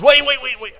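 sharp loud "wait, wait" cutting him off, then easing to calm; urgent stop shout. Acted. Jesus stopping Jairus before he speaks, loud then calming. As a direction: halt him mid-sentence with a loud call. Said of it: "And Jesus goes".

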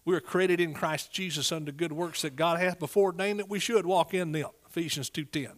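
ordinary talk, nothing marked

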